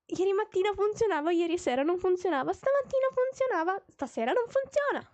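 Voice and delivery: exasperated rant climbing in pitch; building frustration. Real, not acted. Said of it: "my brain is sick".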